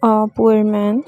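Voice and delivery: word by word, very slowly, "help" clearly said; slow model reading. Shown as a demonstration. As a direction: dictate it slowly for the class. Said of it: "इसमें हमारे पास हेल्प जो है वो पी पे". (धीमे-धीमे बोलकर पढ़ाना)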